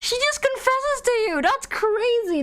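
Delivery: can't believe what just happened; excited disbelief. Real, not acted. Streamer telling the player the character confessed, excited disbelief.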